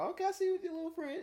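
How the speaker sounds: high, fast playful tease; approving sing-song tease; teasing approval. Shown as a demonstration. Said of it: "It depends on the tone".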